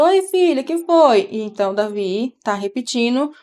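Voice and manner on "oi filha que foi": retold reply. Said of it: "Aí eu respondo".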